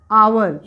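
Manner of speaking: आवर said as "aawar" with no h sound; silent h. Shown as a demonstration. Teacher to children, showing आवर with silent h. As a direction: say आवर starting straight on the vowel, silent h. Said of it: "हावर नहीं पढ़ेंगे".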